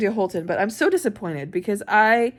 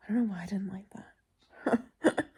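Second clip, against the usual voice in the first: slow, breath-only confession; baffled whisper; 4 dB quieter, slower than usual. Real, not acted. Reader puzzling over a disappointing book, whispered. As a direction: whisper it slowly, at a loss.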